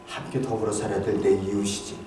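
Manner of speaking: hushed reflection. Real, not acted. Pastor murmuring to the congregation about his neighbors, hushed. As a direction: let it sink to a near-murmur.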